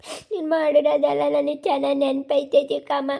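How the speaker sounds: put-on slow, halting voice of a hurt child; aggrieved boy. Boy lists stepmother's past cruelty, slow and aggrieved. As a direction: recount old wrongs haltingly, each one nursed.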